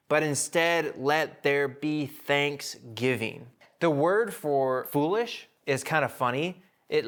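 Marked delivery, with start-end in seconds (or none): 0.1-3.5 slow, weighty reading of the verse; slow scripture reading. Shown as a demonstration. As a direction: stretch out thanksgiving slowly. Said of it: "And then he says".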